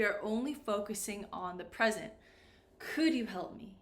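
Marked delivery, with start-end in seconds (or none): 2.8-3.8 "Could" carries the weight in the question; question intonation. Shown as a demonstration. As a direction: lean on "Could" as a model question. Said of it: "listen to the intonation".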